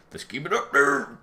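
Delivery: slow and insistent, leaning in; emphatic. Shown as a demonstration. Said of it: "repeated more emphatically".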